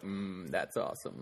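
swallowing water mid-word; mumbled through a sip of water; drinking while talking. Retold or imitated. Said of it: "I said that all weird".

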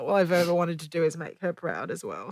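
soft tearful voice; after crying. Real, not acted. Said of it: "sorry for getting emotional".

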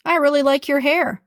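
bright, genuine praise; mean it kindly; sincere compliment. Shown as a demonstration. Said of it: "some are hurtful".

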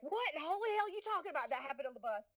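retold Southern outburst at the kids. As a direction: get pissed off and turn Southern. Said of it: "I become very Southern".

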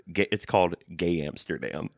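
understated imitation of a Dutch director; deadpan, lightly Dutch-accented answer; attempted Dutch accent. Podcaster quoting the director's film title, light Dutch accent. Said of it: "please try to do the Dutch accent".

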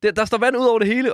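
retold shouting. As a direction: call the others urgently. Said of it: "råber til de andre sådan". (genfortalt råb, højere og presserende)

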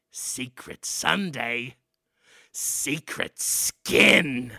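low, very slow ominous chant; low, drawn-out rat elder intoning; rat man father. Acted. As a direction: drag out the motto low and slow.

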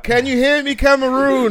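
speaking up loud. Real, not acted. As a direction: project to the back of the room. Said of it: "Can you speak up, please?".

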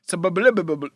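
"subliminal" garbled into "sub-ub-blib-ub-bub"; mush mouth. Shown as a demonstration. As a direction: trip over the syllables of "subliminal". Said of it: "I can't do it".

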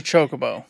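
"chocobo" with a long O, CHOH-ko-bo; preferred pronunciation. Shown as a demonstration. Co-host agreeing, "chocobo" as CHOH-ko-bo. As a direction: say "chocobo" starting like "choke". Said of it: "We know this".

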